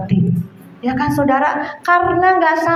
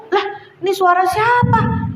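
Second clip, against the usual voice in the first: higher-pitched, retold bewilderment; mock puzzled surprise; 6 semitones higher than usual. Wife hears an answer during prayer, imitated puzzlement.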